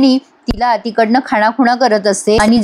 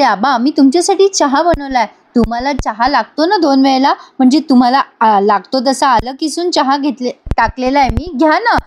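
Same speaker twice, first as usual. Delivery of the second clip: fake sweetness; 2 semitones higher than usual. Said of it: "चांगलं वागायचं नाटक".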